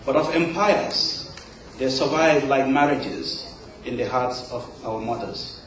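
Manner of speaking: measured poem recital with pauses between phrases; poetry reading. Acted. Poet reads own poem to a live audience, measured recital. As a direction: recite it line by line, letting each phrase settle.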